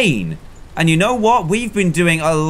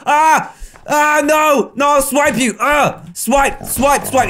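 high frantic yelps, fighting back; hammed-up terror as a wolf charges; panicked screams; 9 semitones higher, slower than usual. Wolf attacks the bear.

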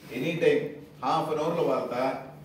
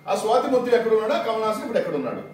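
raised challenge; 5 semitones higher, 4 dB louder, faster than usual. Real, not acted. Press meet, challenging rival's party.

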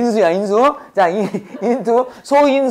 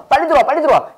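higher, lightly acted urging; urgent hurrying; 5 semitones higher, much faster than usual. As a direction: hurry someone inside with quick repeated calls. Acts out hurrying someone inside. (빨리 오라고 재촉하는 말투)

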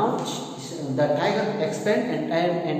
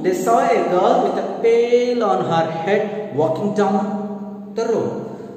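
slow, sing-song storybook reading; story reading; 3 semitones higher, much slower than usual. A narrator's reading. Teacher reading a fable to students, slow sing-song. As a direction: read it slowly to the class like a storybook.

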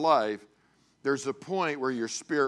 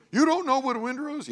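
high, fast mock outburst; high-pitched scolding question; incredulous father; 13 semitones higher, 4 dB louder, faster than usual. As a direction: imitate an exasperated dad's disbelief. Father incredulous at son's ignorance.

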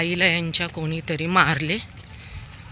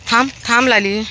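calling out; 6 semitones higher, 8 dB louder than usual. Real, not acted. Calling dog Lali to wait.

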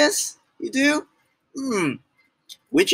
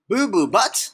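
higher, questioning repeat of the name; incredulous echo; 4 semitones higher than usual. Pretend. Reader questions the hippo's name, incredulous echo. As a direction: echo it in disbelief, rising.

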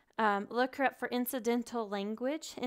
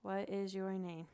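"What is your name?" echoed back quieter, falling on "is"; student echoing; 3 semitones lower, 6 dB quieter, slower than usual. Retold or imitated. Student wrongly repeats the teacher's question in a mild echo. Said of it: "And they're like".

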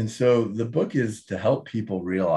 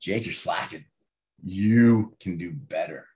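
Debbie voice; 5 semitones lower than usual. Retold or imitated. Mom scolding son Jake, lightly voiced stern mother. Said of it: "She was my Debbie voice".

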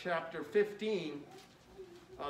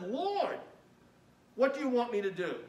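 trembling and astonished; 3 semitones higher than usual. Acted. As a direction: beg in astonished alarm. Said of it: "trembling and astonished".

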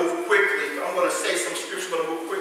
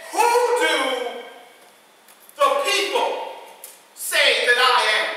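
much higher, slowing, searching question; voicing Jesus; 3 semitones higher than usual. Preacher voicing Jesus asking the disciples, higher and slow. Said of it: "He says".

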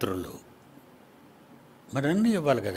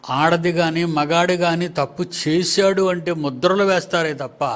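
forceful preaching; 3 semitones higher, 4 dB louder than usual. Real, not acted.

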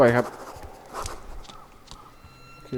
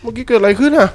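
startled question; 9 semitones higher, 9 dB louder than usual. Real, not acted. Confused after game event.

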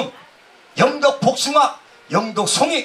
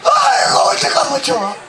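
mock lament; 4 dB louder than usual.

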